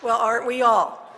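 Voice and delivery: loud, laughing sign-off; beaming, laughing thanks to the crowd. Real, not acted. Closing after big laugh.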